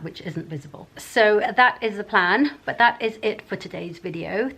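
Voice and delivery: talking with whitening trays in; words shaped round mouth trays. Real, not acted. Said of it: "I've got the teeth whitening trays in".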